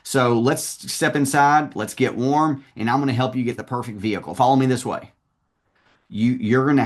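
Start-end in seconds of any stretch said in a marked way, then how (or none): 0.0-5.1 confident salesman. Shown as a demonstration. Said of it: "so you can be like".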